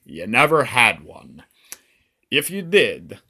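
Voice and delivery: put-on loud, rough-and-ready Romanian accent; attempted Romanian accent. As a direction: taunt the victim in a hammy Romanian accent. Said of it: "I don't know if that's how Romanians talk".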